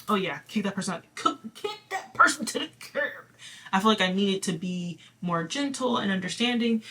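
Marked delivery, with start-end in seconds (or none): 0.1-3.3 harsh brush-off. Pretend. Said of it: "I didn't feel like I needed to just be like".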